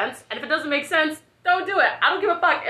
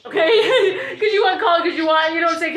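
laughing; 6 semitones higher, 3 dB louder than usual. Real, not acted. Mocking soldiers who join for college.

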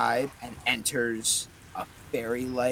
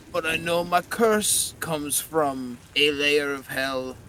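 disembodied voice; 4 dB louder than usual. Acted. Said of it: "disembodied version of Winston's voice".

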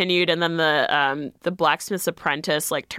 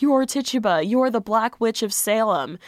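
high-pitched imitation of accusers; mock accusation; 5 semitones higher than usual. Onlookers labelling her the witch, mock accusing. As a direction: point the finger in a raised, mocking pitch. Voicing the crowd's accusing gaze.

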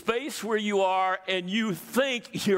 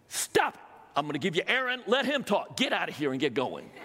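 exasperated God. Acted. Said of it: "Ticked. Mad".

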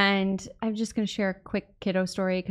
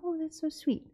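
tender; 6 semitones higher, 11 dB quieter than usual. Retold or imitated. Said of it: "I'm like".

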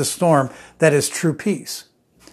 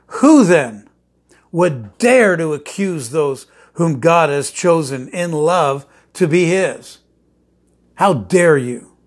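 scripture reading; slower than usual. Acted. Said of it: "verse thirty-three of Romans chapter eight".

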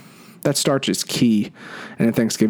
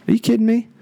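excited disbelief; 10 semitones higher, faster than usual. Real, not acted. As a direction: burst out in happy disbelief. Gushing over mashed potatoes.

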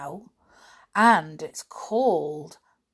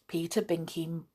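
plain reading voice

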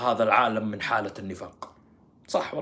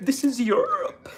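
high, slow imitation of a tearful correspondent; hammed-up drawn-out dismay; mock weepy reporter; 10 semitones higher, much slower than usual. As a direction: stretch it into a mock sob. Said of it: "يعني هي جالسة تبكي".

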